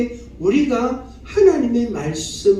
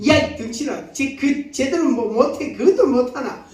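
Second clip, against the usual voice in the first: mock self-berating, pitched up; self-scolding; 4 semitones higher than usual. Preacher acts out someone cursing at himself, self-scolding. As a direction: scold yourself in a higher voice. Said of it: "자기가 자기 보고 막 바보라 하고".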